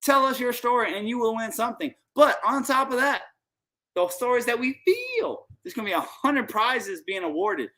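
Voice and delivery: high, fast, wired; buzzing on Cuban coffee; too much caffeine. Real, not acted. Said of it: "I'm a little wired because".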